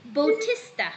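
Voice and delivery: Bautista said as boh-TIS-tuh; pronunciation demo. Shown as a demonstration. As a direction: model the name Bautista, first syllable like "boh". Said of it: "You have to pronounce it as".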